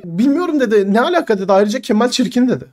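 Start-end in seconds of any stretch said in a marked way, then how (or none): 0.0-0.6 high, heated mock protest; imitating flustered denial. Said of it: "bu kadar heyecanlandın, sinirlendin, bağırdın". 0.9-1.4 high, heated mock protest; imitating flustered denial. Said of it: "bu kadar heyecanlandın, sinirlendin, bağırdın". 1.5-2.5 imitating flustered denial. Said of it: "bu kadar heyecanlandın, sinirlendin, bağırdın".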